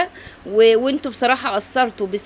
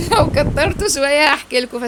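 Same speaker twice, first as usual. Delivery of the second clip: near tears; 4 semitones higher, 4 dB louder than usual. Real, not acted. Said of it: "فسيبوني بقى ايه كده باللي جوايا".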